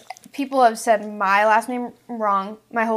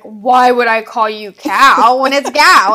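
incredulous quote; 12 dB louder, slower than usual. Retold or imitated. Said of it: "I was like".

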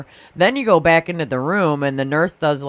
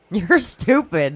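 laughing retort; 4 semitones higher, much slower than usual. Real, not acted. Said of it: "the only thing she says".

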